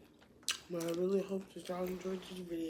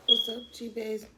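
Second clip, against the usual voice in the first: loud greeting; 3 semitones higher, 8 dB louder than usual. Real, not acted. Opening greeting to viewers.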